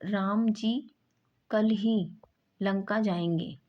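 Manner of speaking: firm, lifted ही; stress on ही. Shown as a demonstration. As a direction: lean on ही after कल. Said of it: "इस प्रकार क्या है".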